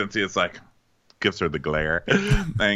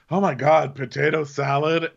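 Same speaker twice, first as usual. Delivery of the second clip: imitated cheery offer, higher and louder; bright, raised-pitch mock cheer; 5 semitones higher, 4 dB louder than usual. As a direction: chirp it like an oblivious hostess. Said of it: "She's so cheery about it".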